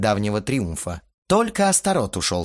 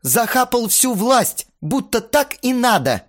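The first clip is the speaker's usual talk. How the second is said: angry shout; 12 semitones higher, 5 dB louder than usual. Acted. Band members quarrel, shouting.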